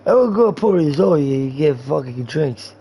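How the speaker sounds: slurred mock-drunk rambling; drunk guy. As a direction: ramble it out boozily.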